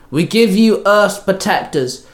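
slow, proud call across the field. A narrator's reading. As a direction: announce it to the villain. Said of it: "Trini called out".

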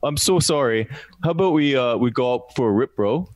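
badly faked Canadian impression; bad Canadian accent. Shown as a demonstration. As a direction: play an apologetic Canadian, poorly. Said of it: "Can you do a Canadian, uh, accent".

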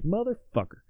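sour grumble in a light put-on accent; mock disgust. American readers after reading the book, mock Southern grumble. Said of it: "and they're like".

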